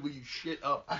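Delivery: "shit up" with sh replacing the s of "sit"; imitated mispronunciation. Teasing over the misread line, "shit up" for "sit up". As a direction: mimic the slip, saying "shit up" for "sit up". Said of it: "It sounds like it said".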